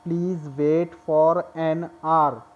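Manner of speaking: "Please wait for an hour" read very slowly; slow example reading; slow dictation. Shown as a demonstration. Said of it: "अब देखिए एक sentence".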